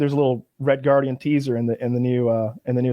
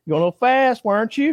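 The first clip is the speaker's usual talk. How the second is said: much higher, prim mock English bobby; hammed-up English bobby; 7 semitones higher than usual. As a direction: ham up the British cop's warning. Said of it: "and he's like".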